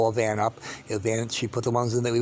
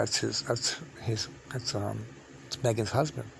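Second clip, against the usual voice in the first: much softer, slow, faltering reply; hesitant; 9 dB quieter than usual. Retold or imitated. Reluctantly telling a friend who Doug is, soft and halting. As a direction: let the voice sink away as you hesitate. Hesitantly naming her husband.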